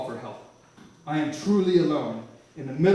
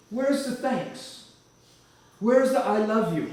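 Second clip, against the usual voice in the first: higher, slow, pointed reproach; God's slow, higher reproach to a forgetful man; reproachful God; 6 semitones higher, 4 dB louder, slower than usual. Retold or imitated. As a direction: drag out the hurt demand for thanks. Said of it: "This voice says".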